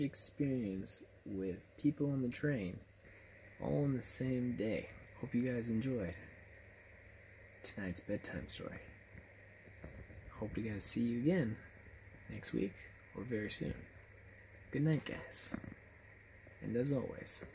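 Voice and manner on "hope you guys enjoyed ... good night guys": softer bedtime goodnight; quiet bedtime farewell to viewers; soft sign-off. Real, not acted. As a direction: wind down gently, like tucking in. Signing off a bedtime story.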